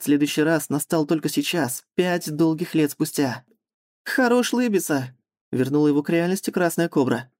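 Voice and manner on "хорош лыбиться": snapping at him. Acted. Kobra snaps at Artyom.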